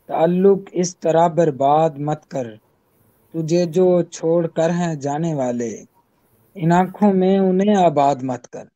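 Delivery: measured ghazal recital, each line lingering; poetry recitation. Acted. (غزل کا ترنم سے پڑھنا)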